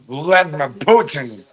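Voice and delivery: a light attempt at a Russian accent; rough Russian-accent demo. Shown as a demonstration. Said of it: "I can do Russian accent".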